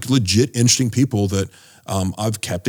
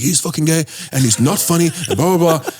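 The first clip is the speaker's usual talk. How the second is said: higher mock Indian accent; 6 semitones higher than usual. Heckler still insulting Brendan, in a mock Indian accent. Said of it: "he had this Indian accent".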